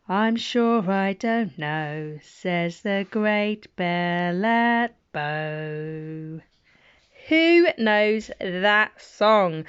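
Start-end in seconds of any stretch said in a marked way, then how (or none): 0.1-6.4 slow great bell. Acted. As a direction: let the big bell toll the words.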